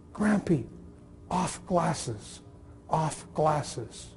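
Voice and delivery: put-on toddler plea. Toddler asking grandpa.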